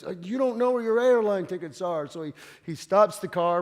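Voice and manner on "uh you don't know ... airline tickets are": higher, louder insistent warning; nagging inner voice. Retold or imitated. Driver's inner voice nagging about tickets, insistent and raised. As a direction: press it like a nagging thought.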